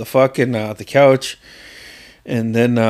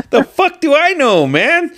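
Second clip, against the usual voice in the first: exasperated yell; 3 dB louder than usual. Retold or imitated. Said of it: "I was like".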